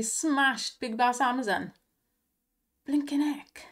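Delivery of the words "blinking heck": breathy whispered disbelief; whispered exclaim. Real, not acted. Streamer watching a big slot win, awed whisper. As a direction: hush it out in awe.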